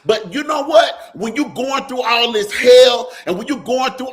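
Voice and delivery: rising, loud preacher's cry, building; preaching at full force. Acted. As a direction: preach it hard to the congregation. Preaching against the church.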